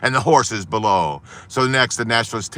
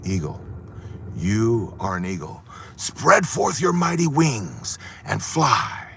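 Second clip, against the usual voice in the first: slow, grand proclamation; solemn command; 3 dB quieter, slower than usual. Acted. Naturalist lifting the eagle on the ledge, slow solemn command. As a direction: draw out the command like a blessing.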